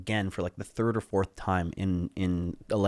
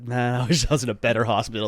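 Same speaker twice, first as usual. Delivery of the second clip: laughing; 5 dB louder than usual. Retold or imitated. Same thought retold, laughing.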